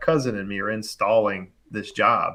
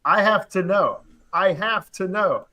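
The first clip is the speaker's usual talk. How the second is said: exaggerated insistence; 6 semitones higher, slower than usual. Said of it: "I didn't tell him like that".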